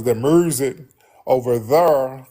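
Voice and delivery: "music" and "there" with a hard Memphis R; intrusive R. Shown as a demonstration. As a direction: say "there" like "thurr", drawn out. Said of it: "where you use those intrusive R's".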